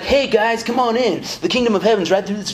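lightly voiced easygoing hippie; cool hippie Jesus. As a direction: play Jesus as a chill, welcoming dude. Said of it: "cool hippie dude who's like".

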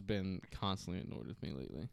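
whispered aside. Real, not acted. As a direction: hush it to the listeners.

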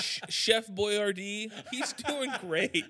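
slow words through laughter; laughing. Real, not acted. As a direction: giggle through it.

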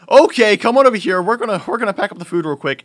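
high, loud manager taking charge; acted-out boss hurrying the crew along; urgent rallying. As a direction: call the staff over urgently.

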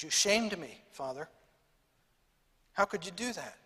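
softly, a hint of tears held back; holding back tears. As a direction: quietly reproach him, barely holding back tears. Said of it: "Still fighting back tears".

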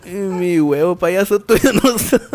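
slow, lightly voiced Chabelo imitation; a hint of an old TV clown host, drawn out. Asked by cohost to do Chabelo: lightly voiced slow old clown. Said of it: "Haz la voz de Chabelo".

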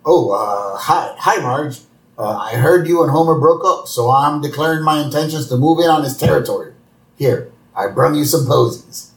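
a hint of Moe fumbling through a bashful pitch. Moe shyly courting Marge at her door, lightly voiced. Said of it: "And Moe's like".

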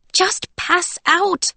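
slow, soothing coax; trying to comfort. A narrator's reading. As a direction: coax her gently and slowly. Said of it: "trying to sound comforting".

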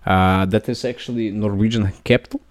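put-on a wobbly, half-Russian Norwegian accent. Host doing a Norwegian accent on request, shaky attempt. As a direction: fake Norwegian accent for a podcast outro. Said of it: "do a Norwegian accent for the outro".

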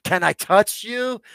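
slow, high and loud, full of wonder; asked aloud in awe. Retold or imitated. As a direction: reach out with the question, amazed. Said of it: "I'm like".

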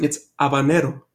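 HABANERO begun on a vowel, with no H sound; silent H. Real, not acted. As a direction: say "habanero" as "ah-bah-neh-ro", dropping the H. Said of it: "You don't pronounce the fucking H".

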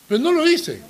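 put-on high childlike protest; defiant little boy. Small son insisting to his father, high childish protest. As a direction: pipe it up like a stubborn toddler. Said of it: "Y él me dijo".

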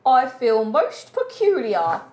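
posh voice. Acted. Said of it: "This is my posh voice".

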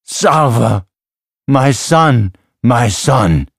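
high, loud overjoyed cry. A narrator's reading. Father recognizing his lost son, crying out joyfully. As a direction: cry out each phrase with emotion. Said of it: "Then he cried out".

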